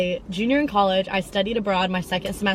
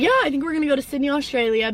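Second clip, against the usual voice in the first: quick, higher, rushed announcement; eager best friend; 5 semitones higher, faster than usual. Retold or imitated. Best friend telling her the study-abroad plan, quick and eager. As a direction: rattle it off fast, excited to share. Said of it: "She's like".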